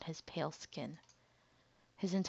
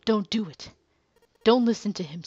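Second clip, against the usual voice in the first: louder, pleading; urgent plea; 3 semitones higher, 7 dB louder than usual. Acted. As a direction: call out to stop him. Junpei pleads with Snake.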